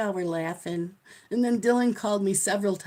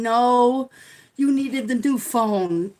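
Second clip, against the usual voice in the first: insistent son; 3 semitones higher, 6 dB louder, slower than usual. Retold or imitated. Son refusing phone back.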